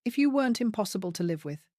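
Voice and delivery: fast, furious outburst. Acted. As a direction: rattle it off in anger. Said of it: "suddenly furious".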